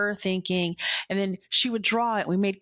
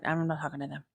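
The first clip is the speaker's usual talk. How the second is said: stubborn refusal; 4 semitones lower, 6 dB quieter, much faster than usual. Retold or imitated. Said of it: "I'd be like".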